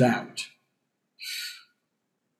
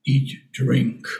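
Tarzan talk; 3 semitones lower, much slower than usual. Retold or imitated. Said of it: "Tarzan would say".

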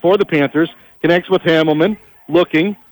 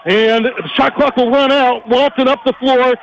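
rising, urgent call of the break; excited play call; 6 semitones higher than usual. Real, not acted. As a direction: voice jumps up as the play builds.

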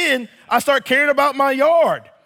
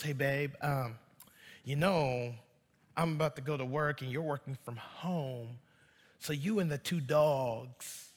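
casual wife; 8 semitones lower, 14 dB quieter than usual. Retold or imitated. Wife leaving for work.

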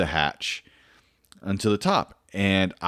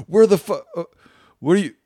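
mock yell dissolving into laughter, higher and louder; laughing through quote; 8 semitones higher, 8 dB louder, faster than usual. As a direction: retell the boss's shout while cracking up. Retelling team leader finding him.

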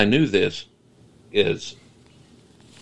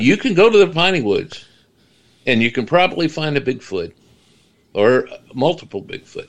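higher-pitched, lightly mocking put-on voice; Adam Sandler; 5 semitones higher than usual. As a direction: keep up a mild comic impression, pausing between phrases. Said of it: "Sounds like Adam Sandler".

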